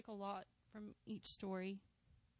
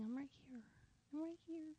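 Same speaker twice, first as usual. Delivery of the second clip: softer, gentle reassurance; soft reassurance from God; really quiet; 5 semitones higher, 7 dB quieter than usual. Retold or imitated. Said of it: "Like, really quiet".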